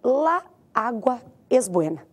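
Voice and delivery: "La agua" as two separate words, slowly; careful, slow "La agua" with both A's; words kept apart. Shown as a demonstration. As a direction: say "La agua es buena" slowly, each A sounded on its own. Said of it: "Se eu disser assim pra você".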